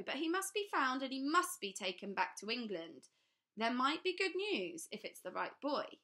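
talking down as if they had lost their wits; sinister official. A narrator's reading. Trapwood warns the children to go to the police.

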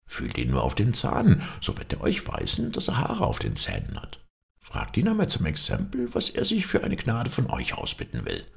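lightly voiced proud townsman, lively rises in pitch; a touch of animated bragging; eager boasting townsman. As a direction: talk up your local philosopher to the king.

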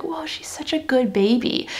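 soft breathy whisper of admiration; whispered remark. Retold or imitated. Recalling a comment about a friend's baby, in a hushed whisper. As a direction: whisper it like you don't want to wake her.

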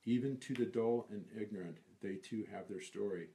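deliberate, evenly phrased verse reading; poem recitation. Acted. Reciting lines of the Desiderata, deliberate recitation. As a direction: recite each precept with care.

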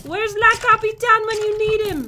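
put-on accent on La Capitan; playful, unplaceable foreign accent. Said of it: "say it with, like, an accent".

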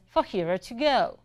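lightly imitated Southern accent at normal pace; heavy Southern accent. Coffee lady repeating her question, lightly imitated Southern accent. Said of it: "in the same heavy accent".

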